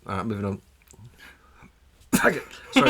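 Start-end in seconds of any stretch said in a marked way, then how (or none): 2.2-2.9 laughing. Real, not acted. Laughing apology.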